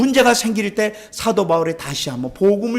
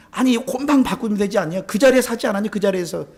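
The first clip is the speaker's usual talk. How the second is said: higher-pitched mock customer complaint; retold protest; 5 semitones higher than usual. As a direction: argue back like an indignant customer, acted out. Acting out customer arguing with clerk. (따지는 손님 흉내)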